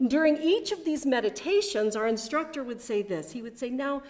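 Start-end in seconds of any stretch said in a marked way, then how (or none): 3.7-4.0 a hint of a British accent on the opening word; mildly British-accented cue. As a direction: lightly imitate a British meditation teacher saying now. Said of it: "in his beautiful British accent".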